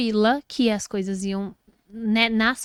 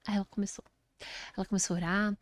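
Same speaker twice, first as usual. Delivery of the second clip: sussurro; 7 dB quieter, faster than usual. Real, not acted. Suspense while telling prayer.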